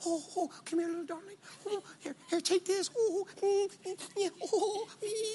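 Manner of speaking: very high, doting, motherly cooing voice. Imitating his wife comforting a whimpering child: imitating his wife cooing over a child. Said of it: "She's like".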